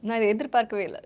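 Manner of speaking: loud, perky character voice; Bujji. Pretend. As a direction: call it out loudly, playing a film character. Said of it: "in your bougie voice".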